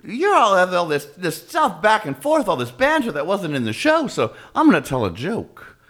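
a hint of Liza bantering with the crowd. Liza telling the audience she has a joke, lightly voiced. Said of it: "She was like".

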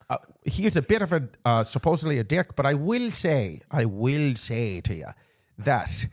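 hammed-up Irish lilt; put-on Irish accent. Podcast host reporting gossip to co-host, mock Irish accent.

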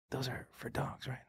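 hushed, secretive whisper. Retold or imitated. Oldest son privately checks with parent, whispering. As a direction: whisper it so only one person hears.

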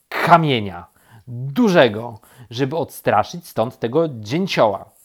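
loud, emphatic answer; grumpy, forceful reply; cross. A narrator's reading. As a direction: punch out each demand. Cross rabbit answers bear.

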